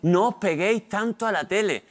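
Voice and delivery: lightly voiced nagging mum; nagging mother. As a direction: imitate a mother repeating her scolding. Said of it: "La frase que más decía mi madre".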